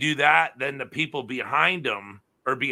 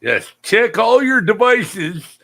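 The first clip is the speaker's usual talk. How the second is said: mock stern warning; 10 semitones higher, 7 dB louder than usual. Mock warning to blocking viewer.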